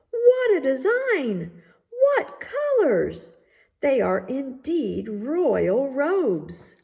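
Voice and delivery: overdone courtiers' rapture; gushing admiration. A narrator's reading. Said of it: "everyone cried out".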